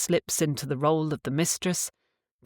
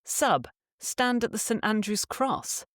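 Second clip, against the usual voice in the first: short, firm order; just tell him, no asking; simple command; 5 semitones higher than usual. Shown as a demonstration. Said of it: "you simply command".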